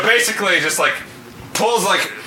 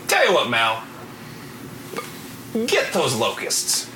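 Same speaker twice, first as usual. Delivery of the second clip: reluctant sceptic; 7 semitones lower, 7 dB quieter than usual. Acted. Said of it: "trying to cling to, like, the last few shreds of skepticism".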